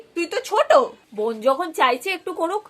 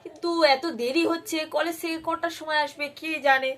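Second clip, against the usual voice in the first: slow, softer fretting to herself; worried murmur; 7 dB quieter than usual. Acted. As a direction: wonder aloud quietly, slowly. Mother worried, waiting.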